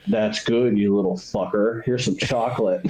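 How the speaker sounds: lightly voiced low American officer; a hint of a low, unhurried villain; Ed Harris. German sniper humoring a little kid, lightly imitated low American voice. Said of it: "And Ed Harris is like".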